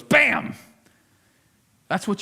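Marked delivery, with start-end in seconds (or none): 0.0-0.5 celebrity chef catchphrase. Retold or imitated. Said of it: "who's the chef that, that he goes".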